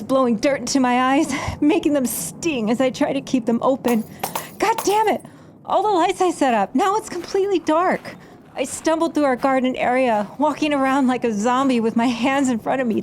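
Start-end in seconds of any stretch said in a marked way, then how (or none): 4.6-8.2 frustrated cursing. Acted. Cursing as the lights fail.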